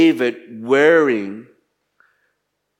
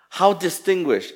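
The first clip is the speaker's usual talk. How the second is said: disgust; 5 semitones higher than usual. Acted. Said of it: "She said in disgust".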